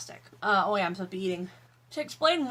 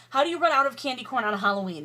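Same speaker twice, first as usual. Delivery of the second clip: ordinary talk, nothing marked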